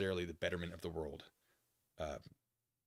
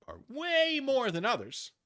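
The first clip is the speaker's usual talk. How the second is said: drawn-out exaggeration; 8 dB louder, slower than usual. Real, not acted. Exaggerating how selfish some are.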